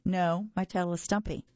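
slurpy, wet monster voice; slurping. Acted. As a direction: slurp the words. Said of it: "Mac slurped".

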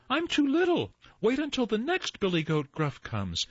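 very high little goat pleading; tiniest billy goat. A narrator's reading. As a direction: bargain in a tiny, high voice. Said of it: "said the tiniest billy goat Gruff".

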